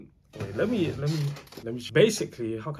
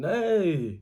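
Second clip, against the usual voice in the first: a sharp mock yell, higher and a bit louder; retold scream; 6 semitones higher, 4 dB louder than usual. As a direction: shout "Hey!" like someone suddenly hit by a pole. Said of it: "he starts screaming".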